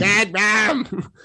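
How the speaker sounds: high put-on child's voice; Tony from The Shining. Podcaster mimicking the boy in The Shining, high creepy chant. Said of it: "when he was doing that".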